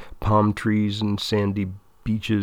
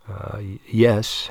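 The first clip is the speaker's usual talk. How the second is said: stammering, unsure yes; hesitant; much slower than usual. Acted. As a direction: falter before the yes. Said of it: "Had says hesitantly".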